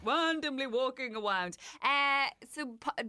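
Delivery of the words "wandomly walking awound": "Randomly" said "wandomly", R turned to W; childish lisp. Pretend. Co-host plays on the word, "Randomly" as "wandomly". Playful baby-talk R as W.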